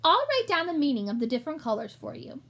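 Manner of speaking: a pompous little shopkeeper rat. Acted. Gilbert the rat's voice.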